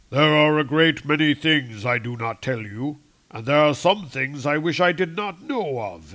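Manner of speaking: a lightly voiced stern Odin; Odin's voice. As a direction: boom it out like a stern king. Odin answers Thor.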